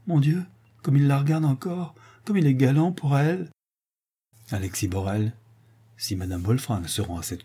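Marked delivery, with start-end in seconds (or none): 0.0-3.5 a mild touch of anguish, half to herself; anguished aside. Acted. Madame Lambert, jealous and anxious, aside, mildly anguished. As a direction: fret under your breath as he charms another. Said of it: "avec angoisse".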